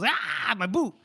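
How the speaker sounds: high, loud mock wail of dismay; crying out. Soldier behind loses his boot in the bog, crying out. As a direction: yelp it out like a hapless soldier.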